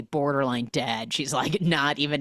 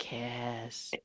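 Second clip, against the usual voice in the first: whisper; 3 semitones lower, 12 dB quieter than usual. Pretend. Whispered chant.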